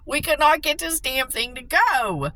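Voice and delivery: high, loud exasperated rant; loud, high complaint about the stubborn breaker; shocked yell. Retold or imitated. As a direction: keep shouting in disbelief. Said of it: "I was so shocked".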